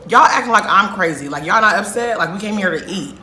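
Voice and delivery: frustrated outburst. Retold or imitated. Hungry friend scolding her calm friends, loud and exasperated. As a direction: snap at friends for staying calm. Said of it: "kinda frustrated".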